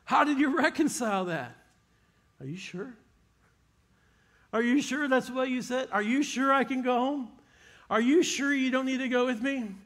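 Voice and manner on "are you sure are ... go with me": rising higher, disbelieving questions ending in a laugh; can't believe what he just heard, pressing again and again; incredulous father. Retold or imitated. Father questioning Jesus in disbelief, higher and incredulous.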